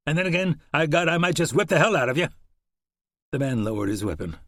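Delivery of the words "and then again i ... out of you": crisp, higher and louder, clipped warning. Acted. Shannon threatening the horseman, crisp. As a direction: say it crisp and unafraid. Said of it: "Shannon's voice was crisp".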